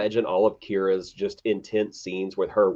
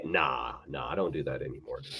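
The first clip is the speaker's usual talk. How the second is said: quiet casual; 6 semitones lower, 9 dB quieter than usual. Acted. Acted reply, casual.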